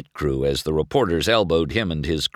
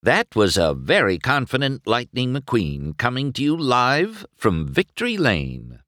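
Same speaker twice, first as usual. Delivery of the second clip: higher-pitched TV reporter sign-off; reporter to camera; 6 semitones higher than usual. A narrator's reading. Reporter turns to the camera after the interview, announcing. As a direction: wrap up a live report. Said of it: "The reporter turned to the camera".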